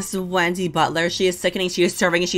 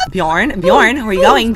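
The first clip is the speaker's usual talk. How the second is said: calling out; 3 semitones higher, 5 dB louder, slower than usual. Pretend. Player calling after Bjorn as he walks away, loud call. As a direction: call the name out louder with a rise.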